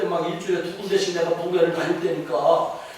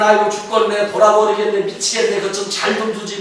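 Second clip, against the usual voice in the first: mock whining; 3 semitones higher, 4 dB louder than usual. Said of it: "막 찡질을 했는데".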